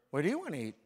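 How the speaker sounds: a hint of the wife asking where to eat. Husband mimics his wife asking where to eat, lightly voiced. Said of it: "what's the first thing she's gonna say".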